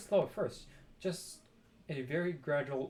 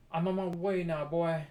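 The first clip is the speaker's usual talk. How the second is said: calling down; 5 dB louder than usual. A narrator's reading. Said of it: "she called down to George".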